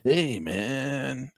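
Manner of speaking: lightly voiced hippie, very slow; hippie talk. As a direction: drag out the question like a stoner. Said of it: "That's the way hippies talk".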